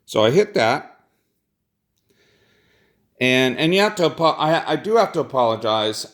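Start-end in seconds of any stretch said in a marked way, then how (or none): 3.2-6.1 groggy from medication; sedated. Real, not acted. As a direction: speak a little drowsy and medicated. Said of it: "I'm heavily medicated".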